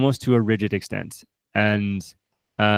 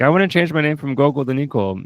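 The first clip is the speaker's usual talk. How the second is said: voicing the son; 5 semitones higher than usual. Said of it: "his son's saying".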